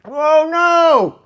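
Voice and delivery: choked-up groan after a spicy bite; gasping through burning wasabi; after eating wasabi. Real, not acted. Reacting to wasabi shrimp shot.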